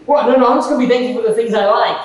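mock objection. Preacher mocking a churchgoer who picks what to thank God for, whiny. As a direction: play the grumbler dodging the verse.

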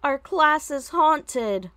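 loud, high and slow, wide-eyed panic; student crying out to the teacher in fright; frightened cry. A narrator's reading. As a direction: blurt it out like the room is cursed. Terrified student announces haunting.

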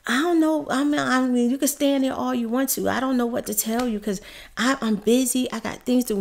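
mock busy dentist; mock dismissive dentist. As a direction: imitate the dentist waving her away. Dentist brushes her off.

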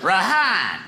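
RAHAN with a high, drawn-out second syllable; questioning roll call. Retold or imitated. Teacher stuck on a pupil's name, questioning RAHAN. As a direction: puzzle over RAHAN, stretching the HAAN up high. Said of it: "my name was always like a question".

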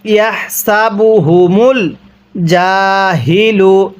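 গলা থেকে হ উচ্চারণ; throaty ha sound. Shown as a demonstration. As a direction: voice the হ from the throat in ইয়াহসাবুহুমুল. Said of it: "গলার মধ্যে আওয়াজ করে পড়ব".

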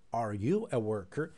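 drawn-out slow question. Shown as a demonstration. Teacher slowing the question for beginners. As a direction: stretch each word for practice. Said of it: "Önce yavaşlayarak söyleyebilirsiniz".

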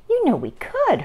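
high, lilting suggestion; catching on. A narrator's reading. Mother picks up Ava's idea, high musing lilt. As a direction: begin the idea and leave it hanging. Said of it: "her mother began".

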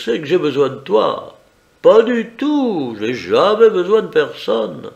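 smug and in control, lifted voice. Acted. Raoul bargains with Jodo.

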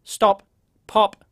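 hard popping P sounds; "Stop, pop" with hard bursts; punched plosives. Shown as a demonstration. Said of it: "talking directly into the microphone".

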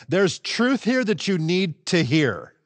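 firm, insistent explanation; emphatic. Acted. Preacher spells out the meaning of truly, emphatic. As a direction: press the point as something vital. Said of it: "it's an emphatic reply".

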